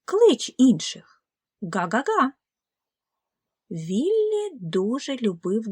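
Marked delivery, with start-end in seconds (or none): 0.0-2.3 a firm goose call, loud and slow; louder honking mother goose. Acted. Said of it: "говорила йому мама".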